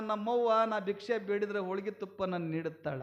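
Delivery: low, soft voice of private thought; quiet musing. Acted. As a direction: muse softly to yourself. Same thought told softly, then loudly. (ಮೆಲುದನಿಯ ಸ್ವಗತ)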